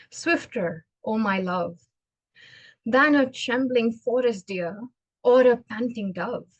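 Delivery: measured, heartfelt poetry reading; poem recitation. Acted. Speaker shares a beloved poem with an audience, reciting. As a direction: recite a love poem with deliberate pauses.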